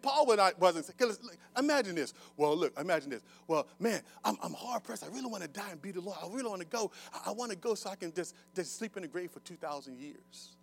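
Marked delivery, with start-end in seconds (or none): 3.5-10.6 understated mock plea. Mock version of Paul wanting soul sleep.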